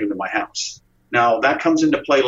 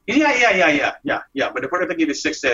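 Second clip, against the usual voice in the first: higher, overly eager brush-off, slowing at the ask; a shifty boss smoothing over unpaid wages; evasive boss; 5 semitones higher than usual. Retold or imitated. Boss dodging paying his new employee.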